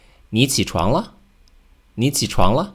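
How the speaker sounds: 你起床了 with 床 and 了 both rising; rising question intonation. Shown as a demonstration. Teacher demonstrating an intonation question. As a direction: let 床 and 了 climb. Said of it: "Make sure that 床 and 了 both rise".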